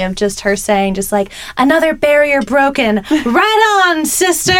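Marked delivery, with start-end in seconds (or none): 1.6-4.5 put-on high, earnest little girl cheer; Lisa impression. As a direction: cheer it like a proud kid. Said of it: "Lisa's response is what killed me".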